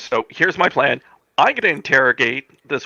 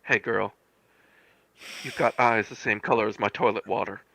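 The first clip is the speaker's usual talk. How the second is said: sleazy pickup line. Acted. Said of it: "in the sleaziest way possible".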